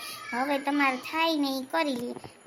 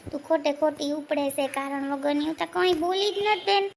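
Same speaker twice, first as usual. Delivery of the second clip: defensive denial. Acted. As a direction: insist you said nothing, voice climbing. Aunt denies blame in quarrel.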